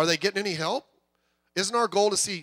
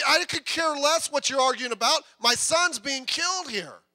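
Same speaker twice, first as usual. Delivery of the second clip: desperate father; 5 semitones higher, 3 dB louder than usual. Retold or imitated.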